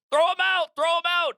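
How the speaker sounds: shouting from the driver's seat as the fight breaks out, frantic; panicked yell. Retold or imitated. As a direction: yell it in a panic at your friend. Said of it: "And I just panic".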